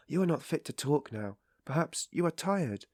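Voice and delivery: gentle. A narrator's reading. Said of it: "she added gently".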